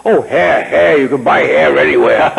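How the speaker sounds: lightly imitated big-voiced actor; a hint of a grand old actor; Sir Cedric Hardwicke. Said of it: "The big, beautiful, deep voice".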